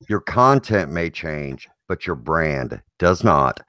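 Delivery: low, slow radio announcer. Acted. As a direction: deliver it like a late-night DJ. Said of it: "sounding all like a radio D J".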